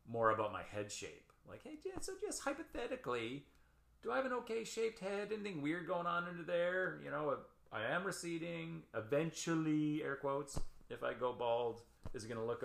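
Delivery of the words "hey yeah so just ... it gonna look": high-pitched tentative question to a barber; high, hedging client voice easing gradually down; sheepish customer. Acted. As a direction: ask hypothetically, voice pitched well up. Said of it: "I would have asked, you know, the barbers".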